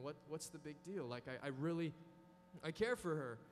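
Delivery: a hint of a casual young man rationalising; mild shrugging self-justification; tempted boyfriend's excuses. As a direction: lightly play a guy talking himself into it. Voicing a tempted boyfriend's reasoning.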